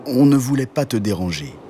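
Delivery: lightly voiced cow with a humming start. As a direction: cow politely explaining to the bear. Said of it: "répondit la vache". (vache, voix légèrement jouée)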